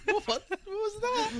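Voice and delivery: bad South African accent. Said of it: "I'm trying to do South African".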